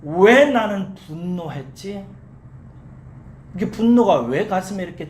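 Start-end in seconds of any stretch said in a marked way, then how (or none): 0.0-2.1 slow question, 왜 drawn out and loud; self-questioning. Acted. Mother asks why she got angry, slow self-questioning. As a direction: stretch 왜 as you question yourself. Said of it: "다시 물은 거예요".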